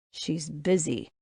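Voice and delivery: slow, quiet words through clenched teeth. A narrator's reading. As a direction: force it out through gritted teeth. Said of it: "Ronan says through clenched teeth".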